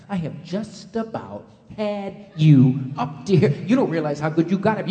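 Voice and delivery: an exasperated mother ranting; mother lecturing her son, mock angry; mother's tirade. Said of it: "queen of lectures".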